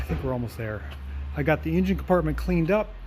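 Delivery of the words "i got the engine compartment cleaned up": slightly winded; out of breath. Real, not acted. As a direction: talk between breaths. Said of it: "I'm slightly out of breath".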